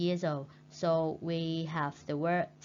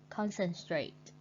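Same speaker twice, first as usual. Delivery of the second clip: CONcentrate, first syllable strong; stress on first syllable; 4 dB quieter than usual. Shown as a demonstration. Teacher repeating Concentrate with stress on CON. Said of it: "stress on the first syllable".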